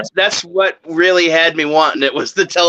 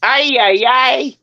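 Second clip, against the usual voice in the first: robot catchphrase; 6 semitones higher, slower than usual. Retold or imitated. Mimics Alpha robot's catchphrase.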